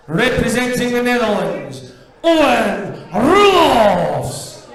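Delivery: announcer call. Real, not acted. Referee calling out the players.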